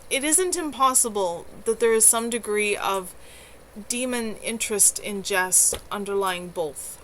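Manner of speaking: steady read-aloud storytelling voice; story narration. A narrator's reading. Streamer reading her novel to chat, steady narration. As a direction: carry the listener through the chapter.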